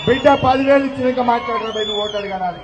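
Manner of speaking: shouted challenge to a vote-seeker; mock confrontation. Sisters scolding the Congress canvasser, shouting. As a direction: yell at him to pay up first.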